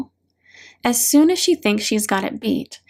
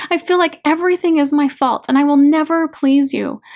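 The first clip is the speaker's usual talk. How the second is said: higher, pleading and angry; anguished outburst; 5 semitones higher, 3 dB louder than usual. Acted. Daughter saying everything she held back to dad, anguished and angry. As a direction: pour out held-back hurt in a raised, higher voice.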